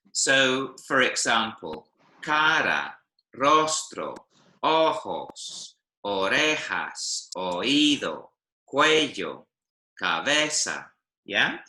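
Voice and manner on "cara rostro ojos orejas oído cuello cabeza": measured word list, cara to cabeza, each punched on the second-last syllable; second-last syllable stress. Shown as a demonstration. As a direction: say cara, rostro, ojos singly, leaning on the next-to-last syllable. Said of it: "stress tends to come on the second last syllable".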